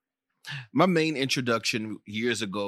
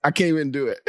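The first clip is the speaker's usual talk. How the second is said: high, louder fed-up woman; exasperated woman; 4 semitones higher, 6 dB louder, faster than usual. Retold or imitated. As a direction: throw up your hands in disbelief. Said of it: "She's like".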